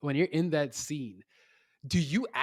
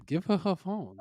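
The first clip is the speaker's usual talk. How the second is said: startled viewer's plea; 6 semitones higher than usual. Retold or imitated. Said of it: "I was like".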